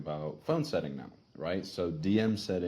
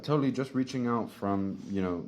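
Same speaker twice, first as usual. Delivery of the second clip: casual; 3 semitones higher, 4 dB louder than usual. Shown as a demonstration. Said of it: "be like".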